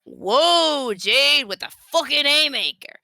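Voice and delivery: high, stunned whoa; surprised. Acted. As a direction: reel back in shock. Reacting to insult.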